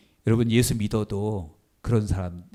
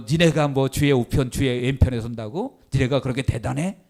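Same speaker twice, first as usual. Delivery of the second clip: indignant challenge. Retold or imitated. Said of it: "막 그렇게 따졌겠죠".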